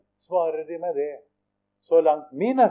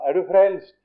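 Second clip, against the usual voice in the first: higher-pitched called question; calling out; 5 semitones higher, 4 dB louder than usual. Retold or imitated. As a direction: call it across the street to an old mate. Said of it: "så roper han til han". (ropende spørsmål)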